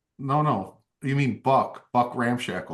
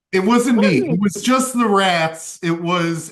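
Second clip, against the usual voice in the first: defensive protest; 4 semitones higher, 4 dB louder than usual. Acted. Buck protests innocence to sword.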